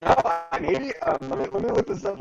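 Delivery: choppy robot-like connection; robotic glitchy audio. Real, not acted. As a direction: voice breaking up like a robot. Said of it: "that is real robotic".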